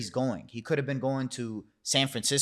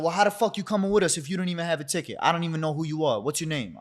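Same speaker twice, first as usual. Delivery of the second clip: fast, higher, hammed-up scolding; imitated angry rant; 5 semitones higher, faster than usual. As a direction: rattle it off like an annoyed manager. Manager berates him.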